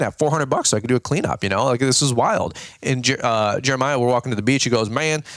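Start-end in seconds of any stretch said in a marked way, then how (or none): 4.9-5.2 put-on Southern accent. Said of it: "with a Southern accent".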